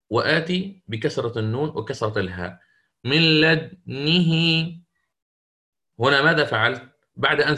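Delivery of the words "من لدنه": slow chanted من لدنه with the dal stilled, then lips rounded, then kasra on nun and ha; slow tajweed recitation of من لدنه with ishmam after the sukun; Quran recitation demo. Shown as a demonstration. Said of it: "فسأسكن الحرف وأضم الشفتين".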